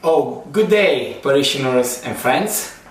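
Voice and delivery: startled churchly welcome; mock formal greeting. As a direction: greet the parish grandly. Greets viewers after practice.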